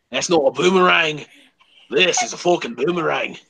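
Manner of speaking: mock Aussie one-upmanship; hammed-up Aussie accent; Australian accent. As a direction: parody an Australian film hero. Parody of Australian film line.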